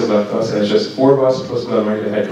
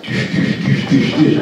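imitated heartbeat thuds; 2 semitones higher, slower than usual. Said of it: "my heart's going".

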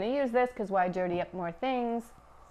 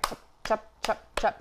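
kebab slapping sound. Shown as a demonstration. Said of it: "the sound that you make when you make the kebab".

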